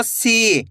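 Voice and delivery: सी with a long, held ee; long ī demo. Shown as a demonstration. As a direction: stretch the vowel of सी for learners. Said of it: "बड़ी ई की मात्रा का उच्चारण". (सी में लंबी ई)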